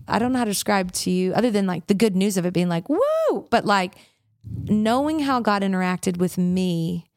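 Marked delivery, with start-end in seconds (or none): 2.9-3.5 a sudden high whoop of joy; joyful woo. Retold or imitated. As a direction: cheer it out like great news just landed. Good news of healing, cheering.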